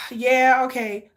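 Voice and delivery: exasperated sigh, then curt agreement; mock exasperated "yeah"; exasperated friend. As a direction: sigh and brush the caller off, imitating an exasperated friend. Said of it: "hear the exasperation in her voice".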